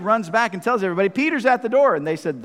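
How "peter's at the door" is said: higher-pitched, mildly excited announcement; lightly acted excitement; excited retelling. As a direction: imitate someone bursting with news. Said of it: "She gets so excited".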